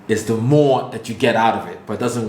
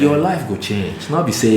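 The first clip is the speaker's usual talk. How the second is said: Nigerian accent. Shown as a demonstration. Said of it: "This is my Nigerian accent".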